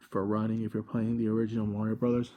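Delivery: out of breath. Real, not acted. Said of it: "Okay, I'm out of breath".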